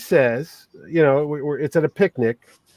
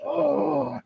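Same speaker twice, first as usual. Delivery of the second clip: high, soft wincing "oh"; cringing groan; 9 semitones higher, 8 dB quieter than usual. Retold or imitated. Man hearing the grating voice up close, cringing. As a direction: let out a small mock cringe. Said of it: "he saw me cringing".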